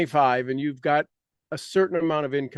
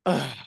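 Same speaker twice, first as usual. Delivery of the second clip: ugh; 3 semitones lower than usual. Shown as a demonstration. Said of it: "you go".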